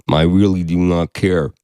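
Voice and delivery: Bigfoot impression. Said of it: "your Bigfoot impression".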